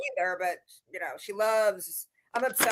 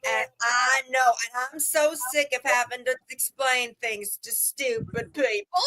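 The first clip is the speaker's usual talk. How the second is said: mocking Brie's rant; 3 semitones higher, slower than usual.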